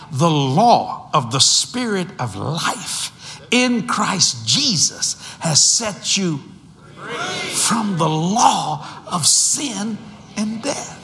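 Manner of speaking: slow, building preacher's call; slow scripture proclamation swelling to a shout; preaching scripture. Acted. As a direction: proclaim it slowly, rising to a shout. Preaching scripture at full force.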